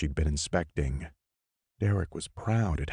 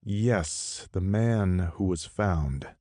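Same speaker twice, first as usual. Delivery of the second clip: through gritted teeth; 3 semitones higher, slower than usual. Acted. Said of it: "he replied through gritted teeth".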